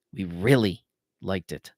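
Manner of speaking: "really" stressed and drawn out, slow; earnest emphasis. A narrator's reading. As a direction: repeat it slowly, leaning on "really".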